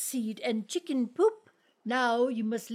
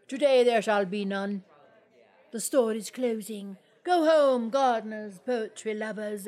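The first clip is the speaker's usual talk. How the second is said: grand dismissal; 2 semitones lower than usual. Acted. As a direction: order everyone home grandly. Poet dismissing the crowd.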